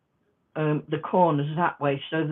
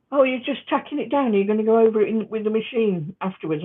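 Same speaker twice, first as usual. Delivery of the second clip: higher, louder mock questioning; sewing club member's query; 6 semitones higher, 4 dB louder, faster than usual. Club member questioning her hand sewing, imitated higher.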